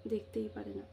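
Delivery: a muttered bitter afterthought; quiet bitter echo. Real, not acted. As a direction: drop the voice and repeat দেখতেই পারে না quietly. Bitter repeat, dropped low.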